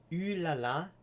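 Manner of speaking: lightly put-on French "ooh la la"; mock French accent. Shown as a demonstration. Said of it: "as a French person would say".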